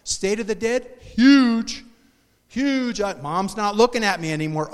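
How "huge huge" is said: excited. Real, not acted. Excited about new teachings.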